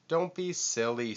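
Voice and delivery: Lion brushing off a worry, smiling. A narrator's reading. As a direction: say it lightly, smiling. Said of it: "smiled Lion".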